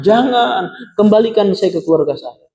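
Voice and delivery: high plea, easing down toward the end; retold cry. Sinner's corpse begs to return to family, imitated plea. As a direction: imitate someone pleading to be sent back. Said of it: "Itu teriakannya".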